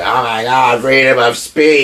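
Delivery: hammed-up, drawn-out outrage; mock horror at a trifle; mock hysteria. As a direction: mimic a scandalized crowd. Mocking everyone's overreaction.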